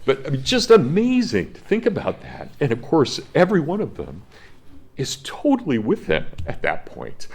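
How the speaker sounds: moved teacher whose voice keeps jumping up and cracking; voice breaking. Real, not acted. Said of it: "I sound like I'm going through puberty".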